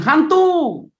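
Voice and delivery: high, loud cry of ghost; frightened scream. Retold or imitated. Terrified disciples crying out at the figure on water, high yell. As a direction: scream it like you've seen a ghost.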